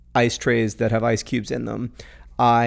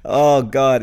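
laughing through pain. Real, not acted. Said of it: "It hurts to laugh".

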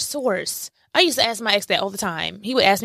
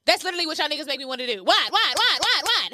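laughing; 6 semitones higher than usual. Acted. Mock reaction to a DM, laughing.

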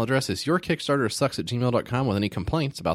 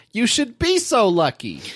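Jewish guy voice; 11 semitones higher, 4 dB louder than usual. Acted. Reading sample responses in character.

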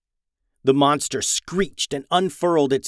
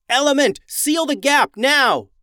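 yell; 12 semitones higher, 4 dB louder than usual. A narrator's reading. Liam ordering the dragon to seal the gap, yelling. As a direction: call it out urgently across the tunnels. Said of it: "yelled Liam as he ran off".

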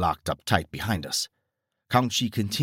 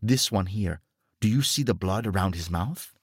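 lightly voiced officer, grim and earnest; a hint of a grim old soldier; 3 semitones higher than usual. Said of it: "nodded at the shocked expression".

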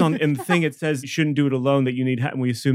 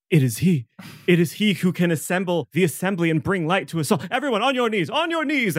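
rising to a much higher, ecstatic cry; a rat priest hailing her savior, climbing higher; awestruck priest; 6 semitones higher than usual. Acted. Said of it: "she goes".

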